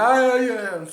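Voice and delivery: high, loud drawn-out mock cry; imitated shouting. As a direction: mimic a fan hollering in the street. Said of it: "tu cries comme ça". (cri imité, long, aigu et fort)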